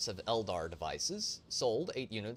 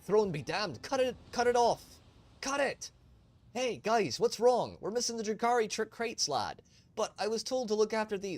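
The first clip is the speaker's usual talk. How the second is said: much higher, louder frantic voices; panicked crew; 12 semitones higher, 6 dB louder than usual. Acted. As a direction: shout in alarm as the crew falls apart. Smugglers panic during attack.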